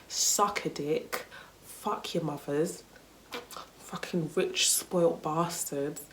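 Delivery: unhurried, understated scorn; dismissive contempt. Retold or imitated. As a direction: curse them off without raising the voice. Imagined true farewell after fake goodbye.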